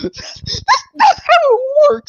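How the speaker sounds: high laughing sarcastic shout; laughing sarcasm. Real, not acted. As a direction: laugh out the punchline.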